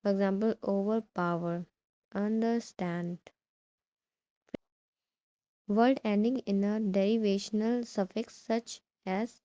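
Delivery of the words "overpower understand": "overpower", "understand" weighted on "power", "stand"; stress on last part. Shown as a demonstration. Teacher gives compound verbs, stress on "power" and "stand". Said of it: "last part में stress करेंगे".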